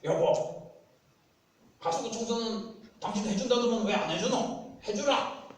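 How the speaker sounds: loud, high, blunt Gyeongsang demand; Gyeongsang dialect. Acted. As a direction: bark a complaint in Gyeongsang dialect. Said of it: "경상도 남자든 여자든".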